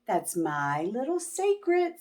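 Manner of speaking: soft, sly teasing; gentle secret. Acted. Miss Nelson teasing the kids, soft and sly. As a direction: keep it playfully hidden.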